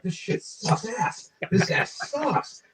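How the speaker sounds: mocking kid sneer. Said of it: "I was like".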